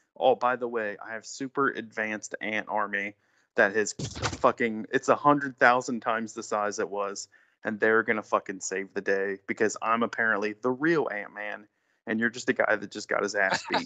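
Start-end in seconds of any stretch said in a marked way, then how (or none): none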